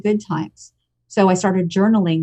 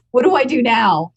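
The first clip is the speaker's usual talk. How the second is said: higher, with a laugh, asking what comes next; laughing question; 6 semitones higher than usual. Retold or imitated. Veteran laughing to her old friend about the book. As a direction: toss it off through a laugh.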